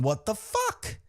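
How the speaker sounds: high, rising imitation of bewilderment; mock disbelief. Fan voicing a baffled wrestler, mock high-pitched disbelief. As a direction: play it baffled, pitch climbing to a squeak. Acts Kevin Owens's bewilderment.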